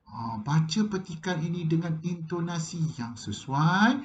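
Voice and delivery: ordinary talk, nothing marked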